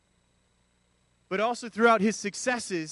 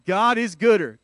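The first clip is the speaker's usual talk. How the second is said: loud declaration; 7 dB louder than usual. Shown as a demonstration. Pastor leading the church in a loud declaration. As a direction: belt it out to the church. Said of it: "turn to the person beside you and tell them".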